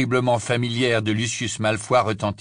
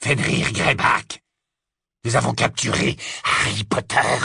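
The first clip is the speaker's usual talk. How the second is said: bitter; 4 dB louder than usual. Acted. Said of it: "une certaine amertume dans le ton".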